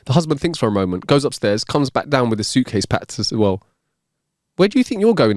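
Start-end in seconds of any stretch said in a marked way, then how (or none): 4.6-5.4 demanding wife. Acted. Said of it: "the wife asks".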